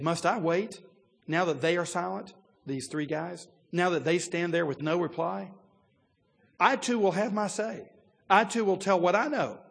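loud, rising impatience, building to a near shout; an eager young man who can't hold back anymore; all fired up. Retold or imitated. The preacher voicing young Elihu bursting to speak. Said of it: "you see this guy's all fired up".

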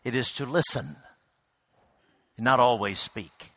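put-on mildly tender, like a wise old friend; tender advice. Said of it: "very tenderly said".

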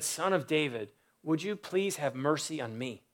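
a quiet, humble plea for mercy; soft pleading. Acted. Preacher voicing the blind beggar pleading to Jesus, soft and humble. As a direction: ask softly, like a beggar who expects nothing. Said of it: "this man pleads, he cries out for mercy".

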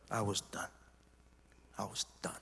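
low, very soft and spent; quietly defeated; drained, hushed. Real, not acted. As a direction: let the voice sink nearly to a whisper. Recalls being shaken and finished.

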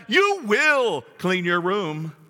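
very slow, each word deliberate; firm parent command. Retold or imitated. Parent ordering child to clean the room, very slow. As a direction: spell it out like a parent. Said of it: "akin to that".

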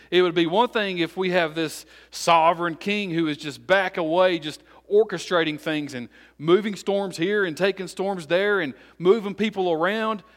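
emphatic preaching. Acted. Preacher telling the congregation of a distant king, emphatic preaching. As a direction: drive the point in a rolling build.

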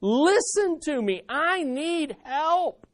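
lightly voiced child pleading with dad; a mildly urgent, rising plea; desperate kid. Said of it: "need something desperately from your dad".

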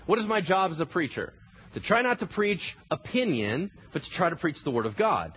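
usual speaking voice

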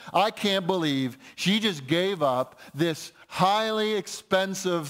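slow, mildly scornful disbelief; mock scolding. Preacher voicing disciples scolding the woman, mild scorn. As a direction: act out the disciples' disapproval, word by word. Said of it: "they react with a snarl".

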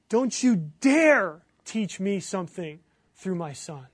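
slow, controlled anger with DARE hit hard; retold angry plea, measured and forceful; Ray Cortese's defiant prayer. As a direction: imitate a father warning God off. Retold father's angry prayer to God.

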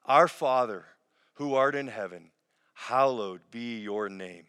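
slow, measured prayer lead; Lord's Prayer. Acted. Pastor leading the online congregation in the Lord's Prayer, slow and measured. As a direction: pray it slowly, leading the people.

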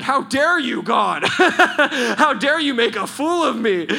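high, loud retold outrage at God; angry outburst. Preacher re-enacting his complaint to God after being laughed silly, mock-furious shout. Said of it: "I was angry. And I said".

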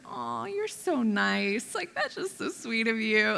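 slow, breezy polite dismissal; brushing it off. Retold or imitated. To her small group leader, a slow polite brush-off. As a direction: wave the compliment away lightly. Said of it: "just brushed it off".

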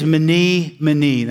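"Mene, mene" with both words stressed, each falling; emphasis on repetition. Shown as a demonstration. Preacher quoting God's verdict to the congregation, stressing "Mene, mene". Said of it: "Now there's emphasis there".

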